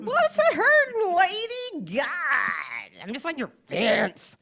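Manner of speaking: high cheeky retort with a laugh; sassy kid. Retold or imitated. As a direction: talk back like a bratty kid. Kid voiced sassing back.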